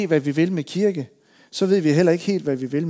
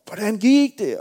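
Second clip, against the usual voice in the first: calling through window; 6 semitones higher, 4 dB louder, slower than usual. Retold or imitated. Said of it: "råbe igennem vinduet igen".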